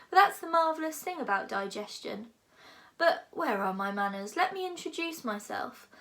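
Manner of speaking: lightly voiced lofty dragon, lecturing; a big dragon musing grandly. Dragon speaks.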